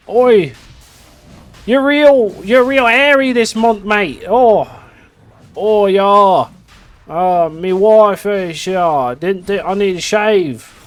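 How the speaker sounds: a jokey Aussie bloke chatting with his mate; Australian accent. Retold or imitated. Streamer acts two hairy Australian mates talking, mock Aussie accent.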